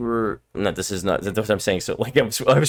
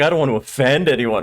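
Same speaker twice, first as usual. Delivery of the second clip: mildly put-on hesitant courtesy; lightly mock over-polite Canadian; too polite; 3 semitones higher than usual. Canadian avoiding offending anyone, too polite. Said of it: "too polite right now".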